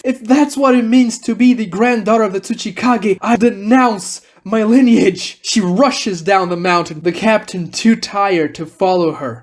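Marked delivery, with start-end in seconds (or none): 0.0-5.4 raised-pitch, indignant renunciation; defiant declaration. Acted. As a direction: declare it firmly, still worked up. Kurotsuchi renounces her family.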